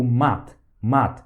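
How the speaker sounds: "mat" with a hard, thick final t. Shown as a demonstration. Teacher shows the hard t in "mat". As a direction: bite off the t in "mat". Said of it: "pronuncia ela de forma bem dura".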